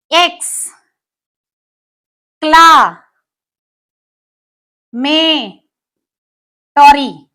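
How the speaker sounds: "एक्स, क्ला, में, टॉरी" split into separate syllables with long pauses. Shown as a demonstration. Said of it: "अलग-अलग उसको तोड़ के लिखो".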